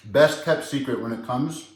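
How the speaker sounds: talking around a mouthful of food; words muffled by a big bite; mouth full. Real, not acted. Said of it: "I'm talking with my mouth full".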